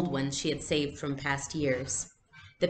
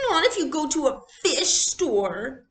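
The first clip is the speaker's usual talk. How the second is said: higher, louder tearful shout; bellowed; 10 semitones higher, 5 dB louder than usual. Acted. Little sister to Ellen about the shoes, bellowing. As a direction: bellow it through tears. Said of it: "Kirsty bellowed".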